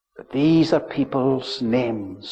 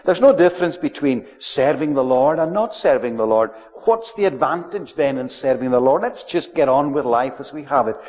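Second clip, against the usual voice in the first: scoffing cynics; 3 dB louder than usual. Retold or imitated. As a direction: toss it off like a dismissive townsman. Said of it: "They, they were saying".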